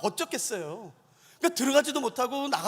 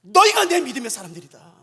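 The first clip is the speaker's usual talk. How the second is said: loud, emphatic voice of God; ringing acted declaration; acted divine proclamation; 8 dB louder than usual. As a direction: proclaim approval as God to the people. Acts God proclaiming approval.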